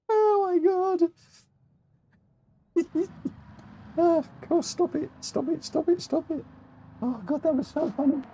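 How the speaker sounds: high, breathless pleading through laughs; helpless laughter. Real, not acted. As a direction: beg them to stop while laughing.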